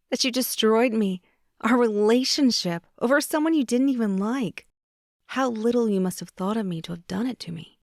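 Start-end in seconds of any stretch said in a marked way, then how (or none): 0.1-6.8 hurt anger. Acted. Carrie confronts him, hurt.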